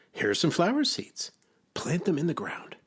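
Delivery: high-pitched storybook character; Frog. A narrator's reading. Frog hands Toad flower seeds, high character voice. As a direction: pitch it up for a helpful little creature.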